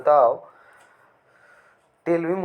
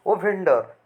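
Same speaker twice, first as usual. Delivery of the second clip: proud call; 4 semitones higher than usual. Retold or imitated. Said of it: "जैसे एकदम proud की तरह".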